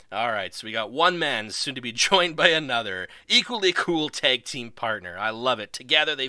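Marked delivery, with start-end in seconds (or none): none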